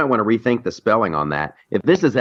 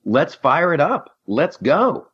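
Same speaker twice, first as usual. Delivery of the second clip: higher, drawn-out rallying call; rallying cry; 5 semitones higher, slower than usual. Acted. Host cheering on a new party's candidate, rallying cry. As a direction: fire up the crowd, slow and high. Voicing an eager party supporter.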